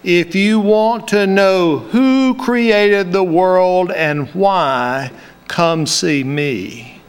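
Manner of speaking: slow, measured hint of a Cuban accent; light Cuban accent. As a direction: lightly imitate the professor's accent, timing each word. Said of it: "with that perfect timing, he paused and said".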